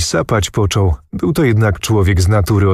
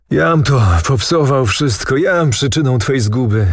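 higher-pitched cry of self-blame; anguished exclamation; 4 semitones higher than usual. A narrator's reading. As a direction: narrate an understated despairing outcry. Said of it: "chwycił się za czuprynę i zakrzyknął".

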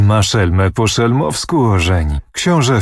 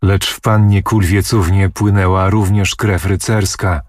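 ordinary delivery, nothing marked

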